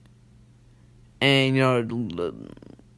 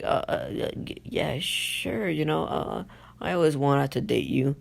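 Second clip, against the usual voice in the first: soft, halting, hesitant yes; nervous stammer; 3 semitones higher, 4 dB quieter than usual. Retold or imitated. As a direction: stumble into a mock-nervous agreement. Sakura nervously answers Naruto's date question.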